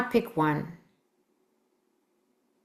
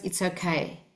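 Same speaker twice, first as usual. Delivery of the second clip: soothing; 6 dB quieter than usual. Shown as a demonstration. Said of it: "They've got to hear the words".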